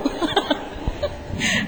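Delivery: breathy rising laugh; airy laugh. Real, not acted. Speaker laughing at the son's question about a seminar, airy laugh. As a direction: laugh along at the punchline.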